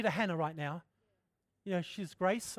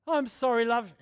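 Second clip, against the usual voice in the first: forced apology; 4 semitones higher, 6 dB louder than usual. Retold or imitated. Mock grudging apology.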